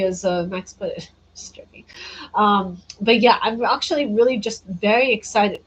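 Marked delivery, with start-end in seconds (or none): 3.4-5.6 put-on playful British accent. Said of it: "Why is just put on a British accent?".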